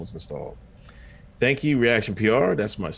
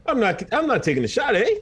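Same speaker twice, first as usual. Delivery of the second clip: mock Canadian accent; 10 semitones higher than usual.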